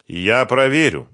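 slow, loud, lifted insistence; stubborn. A narrator's reading. Сухарев refusing to trust Фёдор's money, stubborn. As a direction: hold your ground, drawing it out. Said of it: "упрямо сказал он".

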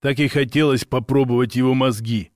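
a hint of an eerie possessed voice; lightly voiced, someone else's voice; strange voice. A narrator's reading. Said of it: "сказал Ваня чужим голосом".

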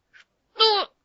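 very high, startled outraged gasp of a word; choking with outrage. A narrator's reading. The monk hearing the price, outraged high gasp. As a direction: squeak it out, breathless with indignation. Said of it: "задохнулся от возмущения монах".

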